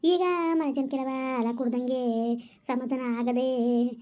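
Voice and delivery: slow, sobbing keen over her lost son; drawn-out tearful wail; wailing lament. Acted. Grandmother wails again over son.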